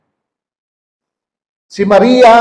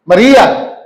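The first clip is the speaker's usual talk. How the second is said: calling her name; 3 semitones higher, 4 dB louder than usual. Acted. Jesus calls Mary by name at the tomb, calling out. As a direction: call her name gently but clearly. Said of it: "nagsalita yung lalaki".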